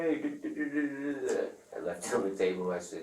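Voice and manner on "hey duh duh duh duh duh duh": excited dealer voice. Retold or imitated.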